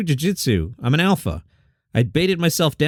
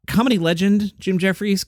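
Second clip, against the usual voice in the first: higher-pitched, doubting echo of the headline; skeptical repeat; 4 semitones higher than usual. Real, not acted. Host doubting a comedian's legend billing, skeptical higher voice. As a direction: repeat it as if questioning the word legend. Questioning the headline just read.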